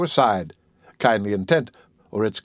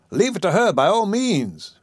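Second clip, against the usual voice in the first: higher, eager swooping voice; eager urging; 7 semitones higher than usual. Acted. Relieved visitor urging the patient's bequest, eager. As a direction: urge it with a touch of relief.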